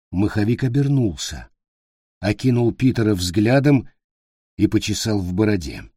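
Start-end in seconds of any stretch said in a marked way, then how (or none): none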